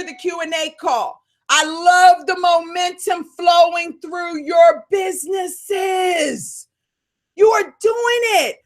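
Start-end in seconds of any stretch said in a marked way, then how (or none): 1.5-8.6 fired up. Real, not acted. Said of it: "I get fired up".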